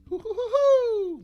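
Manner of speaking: very high, loud, slow cartoon hoot with a laugh; Tigger hoot. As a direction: nail the bouncing cartoon tiger hoot. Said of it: "There it is".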